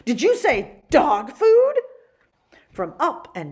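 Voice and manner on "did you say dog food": high, loud, slow shriek; outraged shriek. Acted. Manager shrieking at the girl, high slow shriek. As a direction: demand it in outrage. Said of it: "shrieked the manager".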